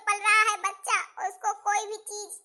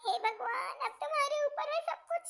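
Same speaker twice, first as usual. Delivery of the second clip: hushed prayer; 2 semitones lower, 5 dB quieter than usual. Acted. Mother-in-law praying outside.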